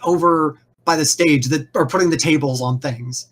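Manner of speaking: brusque boss. Acted. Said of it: "is all like".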